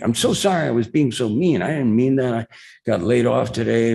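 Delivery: high, eager mock pleading; gushing apology. Bar heckler asks autograph for his uncle, gushing apology. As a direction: imitate a flustered fan, pitch climbing as he goes.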